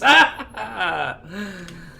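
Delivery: gleeful villain cackle; evil laugh. Pretend. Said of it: "See, I can do an evil laugh".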